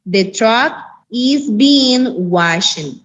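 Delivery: very slow, word by word English; teacher modelling the passive; very slow model sentence. Shown as a demonstration. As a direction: dictate it to the class.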